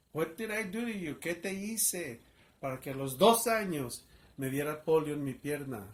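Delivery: retold bitter shout at God; yelling at God. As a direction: demand an answer from above. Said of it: "I began to yell out".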